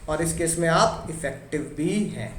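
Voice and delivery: ordinary talk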